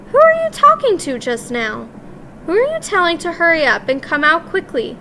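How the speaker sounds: sharp, high demanding witch voice; a suspicious witch calling out. Acted. Witch calling through the bathroom door, high and sharp.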